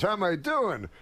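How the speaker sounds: high, incredulous echo of a question; Rodney. Retold or imitated. Comedian answers worried friend, mock indignant. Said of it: "And Rodney goes".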